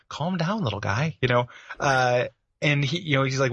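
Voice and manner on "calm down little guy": maternal. Retold or imitated. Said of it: "really maternal towards him".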